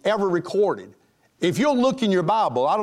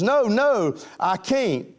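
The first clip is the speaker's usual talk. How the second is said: high mock protest; flustered refusal; 6 semitones higher, slower than usual. Girl refuses her date's kiss, acted fluster. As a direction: play a girl fending off a suitor.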